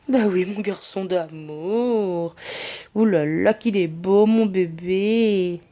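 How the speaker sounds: slow, drawn-out tender cooing. Real, not acted. Admiring her cat to his face, slow tender cooing. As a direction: melt over how cute the cat is.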